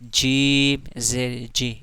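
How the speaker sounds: each letter read out slowly; slow recitation demo. Shown as a demonstration. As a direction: recite slowly so the class can follow. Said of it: "इस तरह।".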